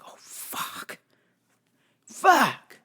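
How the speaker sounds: voiceless, dread-filled "Oh, fuck"; hushed dread as he promises to return; whispered curse. Retold or imitated. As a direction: whisper it under your breath.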